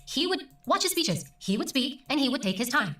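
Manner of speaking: taking his time. Shown as a demonstration. Illustrating a speaker taking his time.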